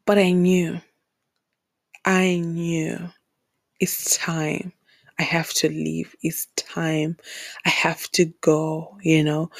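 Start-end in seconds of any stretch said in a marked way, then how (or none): 0.1-4.7 whispered realization. Real, not acted. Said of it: "quiet realization".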